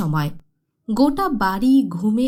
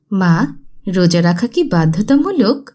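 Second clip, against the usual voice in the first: put-on child's question; 2 semitones lower, 6 dB louder than usual. Child asks mother at sehri.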